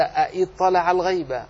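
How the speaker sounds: أإطلع said with two full hamzas; hamza pronounced twice. Shown as a demonstration. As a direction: sound both glottal stops in أإطلع. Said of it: "كان الأصل أن تنطق هكذا".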